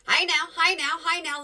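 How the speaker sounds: loud, high hey now to cut in; playful loud interruption; calling out. Real, not acted.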